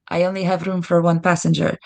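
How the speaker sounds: line read with a light Hispanic accent. Shown as a demonstration. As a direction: put a little Hispanic accent on it. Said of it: "my little accent in there".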